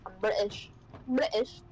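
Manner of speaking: put-on jokey British accent, swallowed T; British accent, "British" said as "Bri'ish"; mock British accent. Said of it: "Can't you tell by my voice?".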